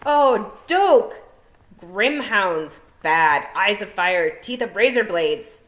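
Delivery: high, loud alarmed toad voice. A narrator's reading. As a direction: shout a frantic warning. Toad warns of monsters.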